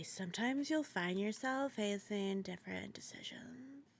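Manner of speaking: hushed unvoiced whisper. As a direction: whisper the tip softly. Reading Monica's tip.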